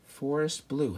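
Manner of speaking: Forest Blue said slow and longing; dreamy, admiring. Real, not acted. Admiring the name of a place he'd love to live, dreamy. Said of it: "how beautiful".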